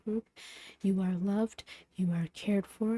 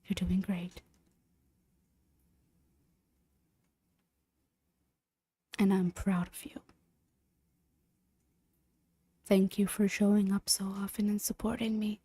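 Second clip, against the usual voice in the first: whispering. Real, not acted. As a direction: whisper with gratitude.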